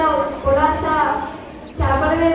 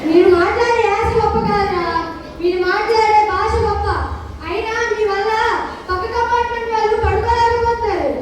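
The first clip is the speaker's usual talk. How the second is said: higher-pitched, scolding the noisy youngsters; scolding elder; 5 semitones higher than usual. Acted. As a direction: tell them off like a fed-up elder. Elder scolds the arguing group. (తిట్టే పెద్దమనిషి గొంతు)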